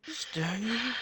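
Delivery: high, breathy rising ask; mock high ask. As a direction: pitch it way up and breathy. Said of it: "out of breath calling for Dave".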